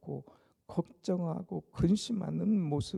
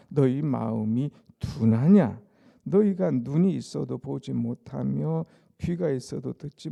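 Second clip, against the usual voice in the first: solemn, weighty Bible reading, louder; scripture reading; 3 semitones lower, 7 dB louder than usual. Acted. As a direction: read the words of Jesus with gravity. Reads scripture aloud to congregation.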